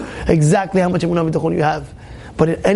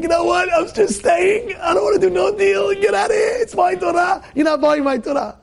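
angry refusal; 13 semitones higher than usual. Retold or imitated. Rabbi yelling at the narrator to get out, angry shout. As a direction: yell it like a stubborn rabbi throwing him out.

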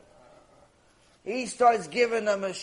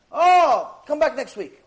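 dismissive chuckle; 6 semitones higher, 7 dB louder, slower than usual. Acted. Fool brushes off tefillin question.

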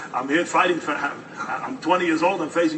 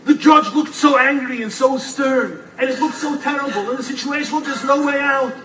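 preaching; 9 semitones higher, 5 dB louder than usual. Acted. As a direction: build the drama of the hopeless moment. Preaches the lesson.

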